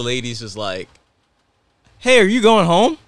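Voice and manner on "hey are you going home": high, loud, bubbly greeting; giggly airport lady. Retold or imitated. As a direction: chirp it like a giggly stranger. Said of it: "like, all giggly, like, happy".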